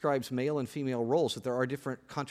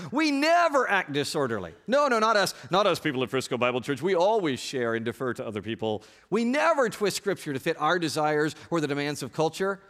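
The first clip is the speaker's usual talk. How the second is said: mock denial; 4 dB louder than usual. Preacher playing his church denying any fault, mock indignant. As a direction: protest innocence with hammed-up indignation. Sarcastically voicing congregation's denial.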